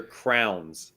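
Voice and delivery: crayons as one syllable, "crowns"; "crowns" with an OW vowel; crowns pronunciation. Shown as a demonstration. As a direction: say crayons to rhyme with towns, "crowns". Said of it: "Some people pronounce it".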